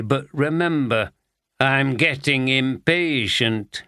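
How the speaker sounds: a hint of a slow, suggestive sleazy boss; drawn-out, suggestive innuendo; slow leering boss. Sleazy boss teasing Steph.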